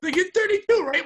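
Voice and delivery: put-on a light send-up of the kid asking; imitating young coworker. Young coworker asks Pat's age, lightly mimicked. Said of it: "It's like".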